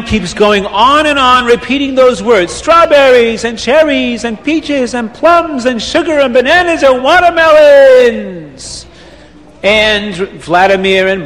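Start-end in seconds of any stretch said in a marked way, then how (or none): 2.5-8.9 gleeful list. Acted. Reb Chaim repeating fruit list.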